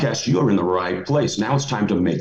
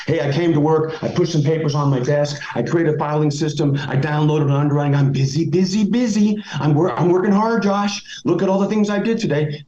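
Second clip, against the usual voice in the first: mock busy employee; 4 semitones higher than usual. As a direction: parody an employee bragging about being busy. Mocking a busy-looking employee.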